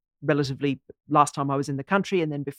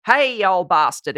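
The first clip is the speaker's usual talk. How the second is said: louder, hearty mock-insult to a mate; matey, raised-voice hail; friendly Australian greeting; 5 dB louder than usual. Shown as a demonstration. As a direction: greet an old pal with affectionate abuse. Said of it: "It can be completely friendly".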